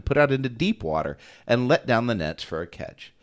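calm, even Bible reading; scripture reading. Acted. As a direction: read the passage steadily to the listeners. Jason will read.

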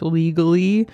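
legally with air quotes, rising. Shown as a demonstration. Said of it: "quote unquote".

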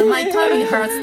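put-on very high little-kid voice; high kiddie voice with a laugh in it; small child. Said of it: "ちっちゃい子だったら".

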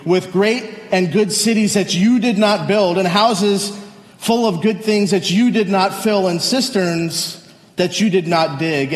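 measured solemn reading of scripture, phrases falling at the ends. Acted. Pastor reading Deuteronomy to the church in a solemn reading voice. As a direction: read it like holy text to the congregation.

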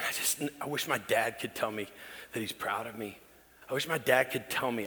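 wistful confession. Retold or imitated. Confessing longing to counselor.

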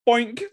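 high-pitched comic "boink"; imitated cartoon boink. Telling a pal what the mascot does, imitated boink. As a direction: pop out a silly high boink. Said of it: "he just goes".

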